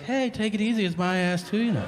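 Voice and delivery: the second head objects in a high, whiny voice; annoyed second head. Acted. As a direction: complain like the other head sharing the body. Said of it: "the other one's like".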